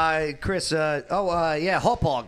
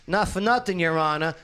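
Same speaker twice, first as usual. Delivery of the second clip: a lightly put-on New York courtroom accent; My Cousin Vinny; 4 semitones higher, 4 dB louder than usual. A New York accent, arguing to the judge like My Cousin Vinny. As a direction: argue it like a Brooklyn lawyer in a New York accent. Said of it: "say it like my cousin Vinny".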